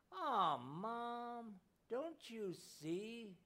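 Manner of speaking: put-on high, slow, tearful child's plea; sniffling. A narrator's reading. Little boy sniffling to his mother, slow and tearful. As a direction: sniff it out like a boy about to cry. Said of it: "he sniffed".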